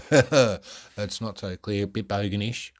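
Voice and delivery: slow, broad put-on Australian bogan drawl; a hammed-up Australian bogan accent. Shown as a demonstration. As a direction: lay the ocker Australian on thick, slowly. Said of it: "Sorry, that was a bit put on".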